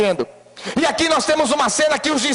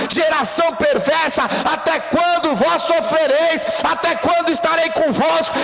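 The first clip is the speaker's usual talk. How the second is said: full-force preaching; 3 semitones higher than usual. Acted.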